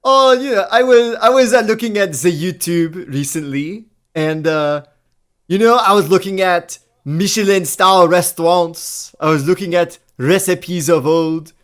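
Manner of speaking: put-on a half-hearted French accent, slipping in and out. Co-host explains Michelin restaurants in a struggling French accent. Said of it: "I can't do it, French accent".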